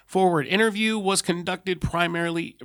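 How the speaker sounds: measured reading of an official report; file narration. Acted. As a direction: read out a case file, formally. Reads the interview log.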